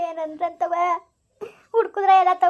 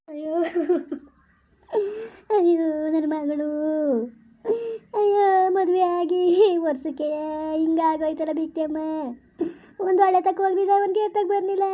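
tearful lament.

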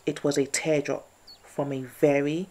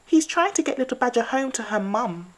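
squirrel voice; 9 semitones higher, 7 dB louder than usual. Acted.

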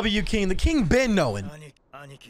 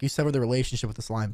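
stern king voice; 11 semitones lower, 5 dB quieter, faster than usual. Retold or imitated. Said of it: "is like".

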